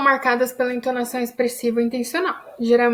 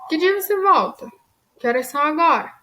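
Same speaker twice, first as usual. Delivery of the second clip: question intonation; 4 semitones higher than usual. Shown as a demonstration. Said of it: "Por exemplo".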